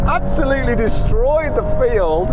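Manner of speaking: very high, thrilled cry; giddy excitement, pitch soaring; exhilarated exclamation. Real, not acted. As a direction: exclaim in real amazement mid-race. Winning the drag race at speed.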